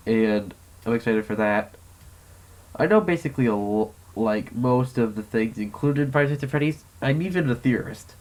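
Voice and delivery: muffled, out of breath; talking through a mask; behind welding mask. Real, not acted. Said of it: "hard to breathe and talk".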